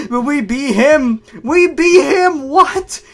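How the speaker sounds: very high, loud victory cry; triumphant yelling. Acted. Players beat the final boss, yelling in triumph. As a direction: shout it in hammed-up triumph.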